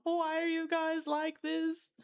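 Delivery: slow, wailing laugh-cry at chat; exasperated howl of laughter. Real, not acted. Streamer pleading with chat, laugh-crying.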